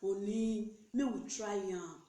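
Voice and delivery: slow, coaxing mock plea; unhurried, wheedling sweet-talk. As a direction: coax a partner gently and slowly. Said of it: "You know how you take talk to am".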